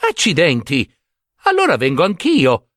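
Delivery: decide on the spot to join in; keen simpleton exclaiming; eager exclamation. Acted. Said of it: "esclamò Giambabbeo".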